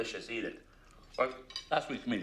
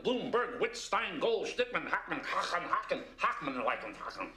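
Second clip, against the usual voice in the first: higher-pitched, exaggerated list of names; mocking surnames; 4 semitones higher than usual. Executive griping about surnames at board meetings, mocking. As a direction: exaggerate each surname in mockery.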